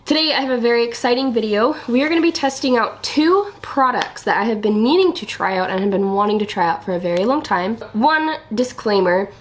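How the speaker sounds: talking around a cough drop; mouth full. Real, not acted. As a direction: speak with a lozenge in your mouth. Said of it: "I have something in my mouth".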